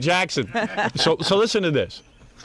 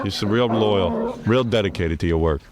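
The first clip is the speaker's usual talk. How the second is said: sarcastic; 5 semitones lower than usual. Real, not acted. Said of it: "sarcastic praise of Gary".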